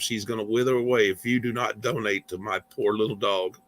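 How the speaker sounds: hammed-up charity plea, lightly voiced; mock e-beg. Streamer begging viewers to donate for his dog, lightly mock pitiful. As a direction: lay it on thick for the poor little doggy, mock pitiful. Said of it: "Let me see if I can pull off a good e-beg".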